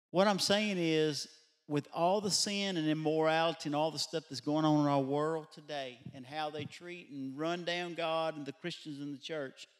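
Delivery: ordinary talk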